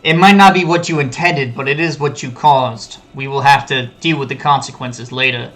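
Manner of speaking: lightly voiced disappointed dad; disappointed parent. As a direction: scold him like a let-down father. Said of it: "Just absolute disappointed dad voice".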